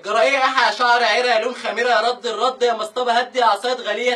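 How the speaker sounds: loud furious string of insults; ranting tirade. Acted. Man ranting insults at the girl, loud furious tirade. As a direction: rattle off the insults, shouting.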